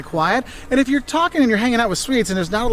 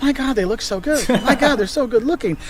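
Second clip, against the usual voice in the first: mildly hammed-up starstruck wonder; mock awe; 5 semitones higher than usual. Tourist looking around at good-looking Swedes, mock awe.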